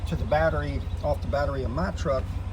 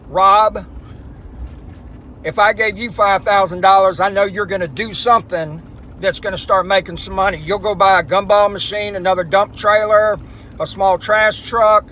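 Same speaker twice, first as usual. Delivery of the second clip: raised voice; 4 semitones higher, 10 dB louder than usual. Real, not acted. Talking over road noise while driving.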